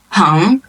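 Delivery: 朋 rising in pitch; second tone. Shown as a demonstration. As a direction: lift upward through 朋. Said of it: "is the second tone".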